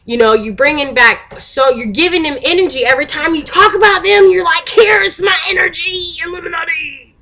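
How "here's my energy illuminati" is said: hammed-up wail, fading off at the end; mock offering. Mocks people feeding the Illuminati.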